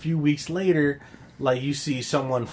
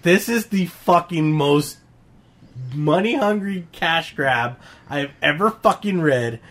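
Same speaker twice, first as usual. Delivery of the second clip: slow, emphatic exasperation, pitched up; irritated; 4 semitones higher than usual. Retold or imitated. Reader ranting about a cash-grab comic, irritated. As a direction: drag out each word in irritation. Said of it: "is irritating me".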